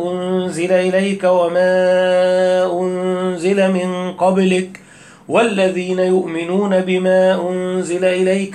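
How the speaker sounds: slow chanted recitation, vowels stretched; recitation with madd. Shown as a demonstration. Teacher shows how the sheikh recites, stretched slow chant. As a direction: chant it slowly, holding each long vowel. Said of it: "هيقول إيه؟".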